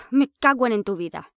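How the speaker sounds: sigh, then a loud Spanish curse; angry curse. Acted. To the man who tricked her, sighing angry curse. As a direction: swear at him, fed up. Cursing after sigh, furious.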